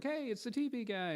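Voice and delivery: high, bright-eyed fan greeting "Hey, it's the T V guy"; excited fan call. Retold or imitated. Fans spot him at the movies, calling out high and excited. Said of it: "people who were like".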